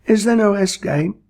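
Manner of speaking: whispered, pleading; unvoiced desperate whisper; whispered plea. A narrator's reading. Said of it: "plaintively asked the victim".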